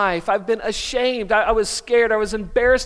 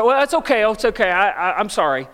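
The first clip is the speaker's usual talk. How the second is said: flustered backpedal; 3 semitones higher, 4 dB louder, faster than usual. Retold or imitated. Embarrassed boy backing off.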